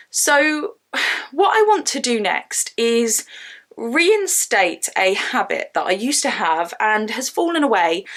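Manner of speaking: winded, breathy from the stairs; out of breath. Real, not acted. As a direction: talk while catching your breath. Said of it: "sorry, I'm slightly out of breath".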